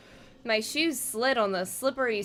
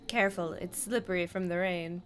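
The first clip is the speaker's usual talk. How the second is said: character voice; 3 semitones lower, 5 dB quieter than usual. Acted. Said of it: "Good voice".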